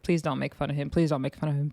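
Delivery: soft, low, anxious aside; nervous plea. Retold or imitated. Viewer worried for the tour guide, quiet nervous pleading. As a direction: plead under your breath, mildly nervous. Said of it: "I was a little bit nervous".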